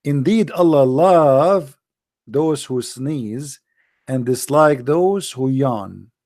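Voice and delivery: slow, grand recitation; hammed-up slow sermon tone; mock solemn. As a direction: intone it with pompous gravity.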